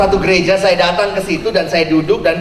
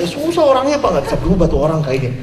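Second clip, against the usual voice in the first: dismissive pastor; faster than usual. Retold or imitated. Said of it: "Ini hamba Tuhan yang ngomong begitu".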